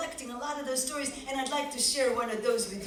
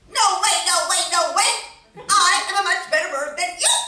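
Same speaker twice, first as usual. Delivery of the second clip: louder and higher, defiant; Robin jabs back; 8 semitones higher, 12 dB louder, faster than usual. Acted. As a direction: fire it straight back at him. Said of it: "Robin would jab right back".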